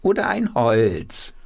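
high, slow quacking hand puppet. Acted. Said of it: "mit verstellter Stimme quakt er los".

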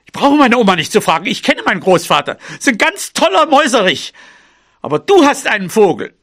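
fast, snippy mouse comeback; indignant retort. Acted. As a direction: rattle off the retort, offended. (schnell und beleidigt gekontert)

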